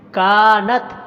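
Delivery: کانت with a drawn-out کا; کانت, only کا long. Shown as a demonstration. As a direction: stretch کا in کانت. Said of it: "صرف کاف کو لمبا کرنا".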